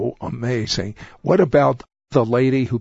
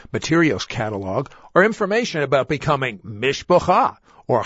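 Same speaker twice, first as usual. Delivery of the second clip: TV ad read; 2 semitones higher than usual. Acted. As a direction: read the offer and spell out every number. Host's product ad read.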